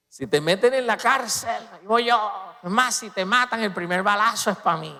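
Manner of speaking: brash disciple swearing loyalty; Pedro. Acted. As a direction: play the boastful loyal friend. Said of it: "fue que salió Pedro".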